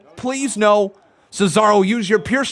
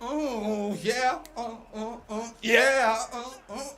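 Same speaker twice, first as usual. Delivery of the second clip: out of breath; 7 semitones higher, 10 dB quieter than usual. Real, not acted. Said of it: "I'm out of breath".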